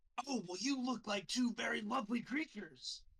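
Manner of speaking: very high, put-on most aggressive, meanest tone. Telling of passing two animals on the road, mock-aggressive mean tone. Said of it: "in the most like aggressive, meanest tone I can".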